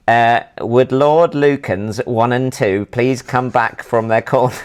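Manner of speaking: put-on slow radio call with a light northern accent; Wardy's northern accent. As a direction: imitate a northern marshal calling slowly over the radio. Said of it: "That's a, that's a good accent of Wardy".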